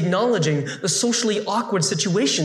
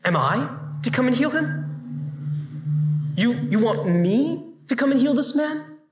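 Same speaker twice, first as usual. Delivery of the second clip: you really want me, a Jew, to come?; incredulous question; 4 semitones higher than usual. Acted. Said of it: "something kinda like this".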